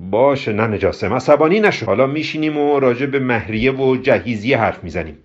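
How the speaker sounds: mildly put-out concession; miffed. Acted. Hamud placates Kobra about dowry talk, slightly miffed. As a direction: give in with a touch of hurt. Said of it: "با دلخوری گفت".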